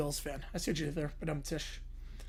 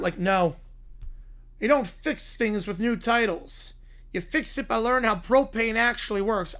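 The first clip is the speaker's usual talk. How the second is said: Hank Hill. Retold or imitated. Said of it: "by Hank Hill".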